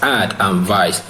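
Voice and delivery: ad and vice, split into two slow syllables; syllables split apart. Shown as a demonstration. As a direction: say ad, then vice, slowly and apart. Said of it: "There are two syllables in advice".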